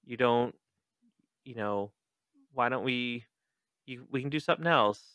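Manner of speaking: tender, halting reassurance; hesitant, soft, caring voice; Cassie. Acted. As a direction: gently offer a way out, softly. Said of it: "touching moment between Cassie and Jake".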